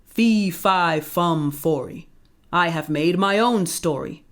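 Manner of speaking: booming giant. Acted. Giant booms his rhyme.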